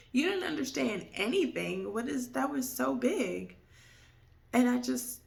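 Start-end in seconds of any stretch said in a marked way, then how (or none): 0.1-3.6 incredulous. Retold or imitated. Reliving disbelief at father.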